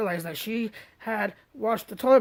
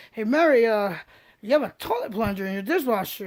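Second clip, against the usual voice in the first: calling out to Mary; 2 semitones higher, 5 dB louder than usual. Retold or imitated. Calling Mary about the plunger.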